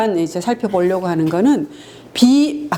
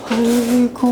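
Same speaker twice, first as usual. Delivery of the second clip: mock sneer; 3 semitones higher, much slower than usual. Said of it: "이렇게".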